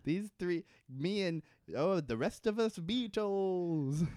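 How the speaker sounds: lightly hammed-up Liverpool accent; attempted Liverpool accent. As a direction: feel around for a Liverpool accent. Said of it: "I can't, I can't do an accent".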